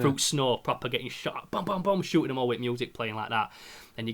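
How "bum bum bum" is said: imitated gunshots. Imitating gunfire in fight.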